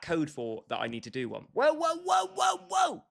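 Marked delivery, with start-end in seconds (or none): 1.5-3.0 high, loud excited whoas; surprised whoa. Real, not acted. Streamer yelping in shock at a chat message, high and loud. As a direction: yelp in surprise at the pack. Streamer reacts to a big pull.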